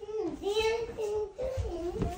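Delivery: slow, tearful complaint; crying. Real, not acted. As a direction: whimper it through tears.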